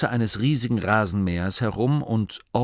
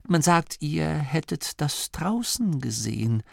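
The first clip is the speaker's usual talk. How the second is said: hesitant, halting and hopeful; 5 semitones higher, slower than usual. A narrator's reading. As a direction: feel your way towards a hopeful question. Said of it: "Es klang hoffnungsvoll". (zögernd und hoffnungsvoll)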